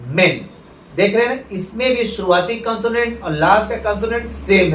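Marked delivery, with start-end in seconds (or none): 0.1-0.4 मेन with a short 'e', as in English men; short vowel men. Shown as a demonstration. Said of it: "बोलते वक्त फर्क आ रहा है". (मेन में छोटा 'ए')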